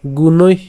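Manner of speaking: গুণৈঃ said gunoi with a breathy end; visarga pronunciation. Shown as a demonstration. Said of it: "গুণৈঃ কেন উচ্চারণ করলাম".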